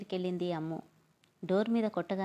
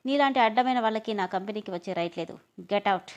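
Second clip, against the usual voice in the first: louder, furious order to leave; angry yell; 4 dB louder than usual. Acted. Boss yelling at Praveen to get out, angry. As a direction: throw him out with a raised voice. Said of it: "అని గట్టిగా అరవగానే".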